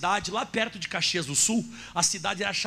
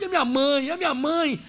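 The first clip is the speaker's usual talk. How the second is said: retold crying; 6 semitones higher, 4 dB louder than usual. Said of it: "Ele começou a botar a mão na cara".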